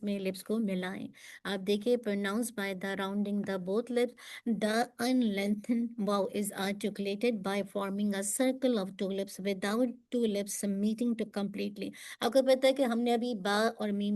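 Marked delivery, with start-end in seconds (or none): 2.0-11.9 slow reading. Shown as a demonstration.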